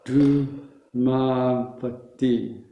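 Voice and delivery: "Du, ma, va, ti" broken into slow syllables; syllable-by-syllable model. Shown as a demonstration. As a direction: model each syllable for the class to copy. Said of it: "Let's all say that together".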